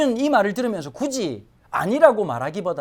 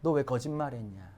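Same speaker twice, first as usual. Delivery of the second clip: low, hushed reproach; Abimelech rebuking; 7 semitones lower, 9 dB quieter than usual. Acted. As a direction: rebuke quietly, in a lowered voice. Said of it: "아비멜렉이 책망해요".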